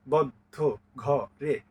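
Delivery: "বদ্ধ, ঘ, রে" in separate, even beats; syllable by syllable. Shown as a demonstration. Teacher tapping out verse syllables, "বদ্ধ, ঘ, রে" beat by beat. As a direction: tap out "বদ্ধ, ঘ, রে" with a gap after each syllable. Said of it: "আলতো করে চড় দেন".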